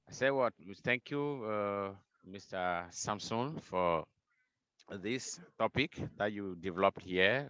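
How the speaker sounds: repeating it up so all can hear; speaking up. Real, not acted. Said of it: "It's better".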